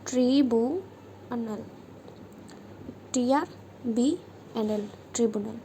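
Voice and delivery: slow, drawn-out dictation of ट्रिब्यूनल, each syllable stretched; dictating ट्रिब्यूनल very slowly. Shown as a demonstration. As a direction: read ट्रिब्यूनल out slowly so students can write it. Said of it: "अगला word है ट्रिब्यूनल".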